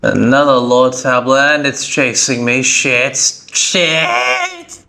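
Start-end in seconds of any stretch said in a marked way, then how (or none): 3.5-4.8 sudden high-pitched panicked curse; scared horror game streamer. Real, not acted. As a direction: jump scare yelp of a word. Startled by enemy chasing him.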